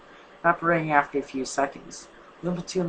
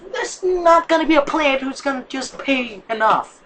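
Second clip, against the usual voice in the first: angry; 10 semitones higher, 6 dB louder than usual. Acted. Heated argument continues.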